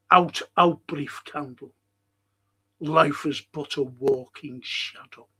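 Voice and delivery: slow, grave Shakespeare reading with long pauses; dramatic recitation. Acted. Lecturer reciting Macbeth's speech to the class, slow and grave. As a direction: deliver it like Macbeth mourning. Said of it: "quoting the speech".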